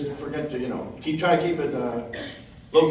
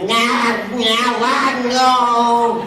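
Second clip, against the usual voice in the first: mock con walker mumble; 7 semitones higher, 6 dB louder, much slower than usual. Mimicking hunched con walker.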